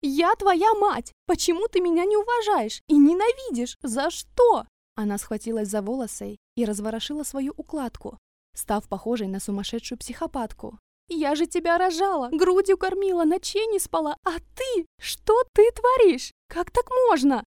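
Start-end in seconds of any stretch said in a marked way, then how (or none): 0.0-4.7 high, loud, slow wailing accusation; escalating shriek. A narrator's reading. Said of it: "только ещё больше распалялась". 11.1-17.4 high, loud, slow wailing accusation; escalating shriek. A narrator's reading. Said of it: "только ещё больше распалялась".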